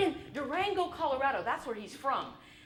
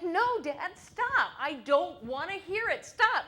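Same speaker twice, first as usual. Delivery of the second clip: louder, insistent stop; pleading protest; 3 semitones higher, 6 dB louder, slower than usual. Retold or imitated. The speaker pleading with Dad to stop talking, insistent. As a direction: beg him to stop, raising the voice. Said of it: "I'm like".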